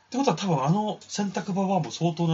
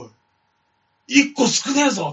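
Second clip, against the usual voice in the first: oni yelling; 11 semitones higher, 8 dB louder than usual. Acted. Oni notices missing peach.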